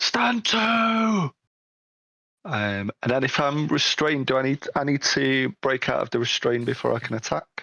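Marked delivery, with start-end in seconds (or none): 0.0-1.3 huge, booming, very high battle cry, "to" drawn out. Player voicing their character Zam during a fight, Zam's booming shout. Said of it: "Zam shouts in the booming, large voice".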